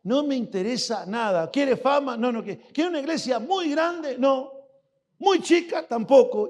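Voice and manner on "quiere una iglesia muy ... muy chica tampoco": mock questioning. Preacher voices rising questions.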